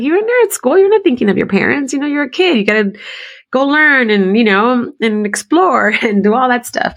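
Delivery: high, moved mom voice; touched and amazed. Retold or imitated. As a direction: marvel at him tenderly. Addressing son in her mind.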